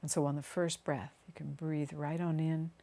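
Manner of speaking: unhurried meditation voice with long pauses; guided meditation. Acted. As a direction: guide them gently down into the body, phrase by phrase. Continues leading the meditation.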